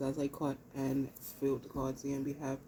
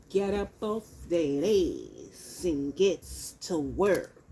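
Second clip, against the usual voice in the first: louder, bossy push; firm command; 5 dB louder than usual. Real, not acted. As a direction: get up and get to work. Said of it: "This is what the Holy Spirit's saying".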